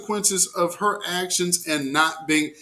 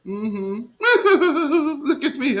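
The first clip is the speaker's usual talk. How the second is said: high squealing laughter; laughing hard; 9 semitones higher, much slower than usual. Real, not acted. Host laughing at the skater clip, high giggles. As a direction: crack up, can't hold it in. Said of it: "I'm in tears".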